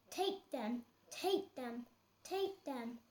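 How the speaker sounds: soft fading echo; cave echo. Acted. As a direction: let each take them fade away. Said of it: "came back the welcome sound".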